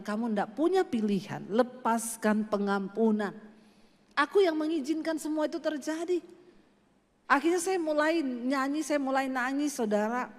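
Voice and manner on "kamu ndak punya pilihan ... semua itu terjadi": voice of God. Retold or imitated. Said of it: "Tuhan bilang".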